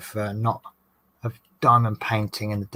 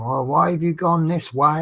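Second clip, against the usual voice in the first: higher, louder aggrieved question; mock kicking off; 4 semitones higher, 5 dB louder than usual. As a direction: imitate a complaining passenger. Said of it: "he was kicking right off".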